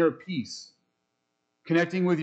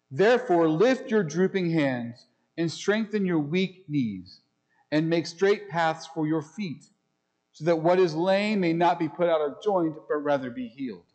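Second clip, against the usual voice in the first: unhurried reading of holy text; scripture reading. Acted. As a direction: read the verse with weight and care. Reads scripture passage.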